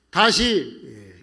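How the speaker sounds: usual speaking voice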